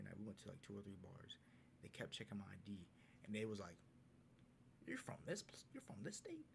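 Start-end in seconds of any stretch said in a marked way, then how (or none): 4.9-6.5 much higher, incredulous question; mock disbelief. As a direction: act amazed he's local. Bouncer doubting his ID.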